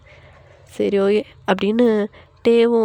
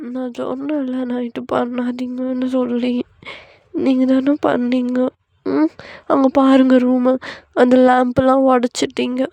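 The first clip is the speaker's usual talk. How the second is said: complaining wife; 3 semitones higher than usual. Acted. Wife blaming husband for last night, whiny complaint. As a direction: whine the blame at your partner.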